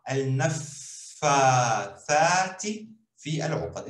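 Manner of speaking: al-nafathati fi al-uqad said slowly, with the doubled f leaned on; careful Arabic phrase. Shown as a demonstration. Teacher modelling the full phrase slowly. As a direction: read al-nafathati fi al-uqad clearly for students. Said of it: "O mais importante, o fa".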